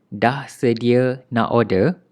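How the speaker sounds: a light Malaysian English "order" inside the Malay question; Malaysian accent. Shown as a demonstration. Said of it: "we say it with, uh, Malay accent".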